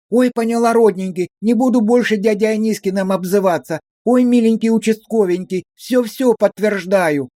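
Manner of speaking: high, pleading sing-song; high wheedling lament. A narrator's reading. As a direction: wail back in hurt protest. Verka's voice continues. (высокое жалобное причитание)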